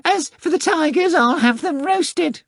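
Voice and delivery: a prim talking cat, taking offence; Behemoth the cat voice. Acted.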